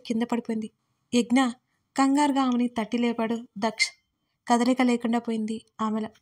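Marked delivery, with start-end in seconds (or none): 1.1-1.5 alarmed call. Acted. Daksh calls fainted Yagna.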